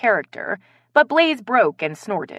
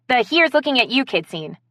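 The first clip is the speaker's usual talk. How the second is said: higher, excited suggestion; 6 semitones higher, 3 dB louder than usual. A narrator's reading. Ronnie suggests a movie scene to friends, excited. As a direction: say it with eager excitement. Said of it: "Ronnie said excitedly".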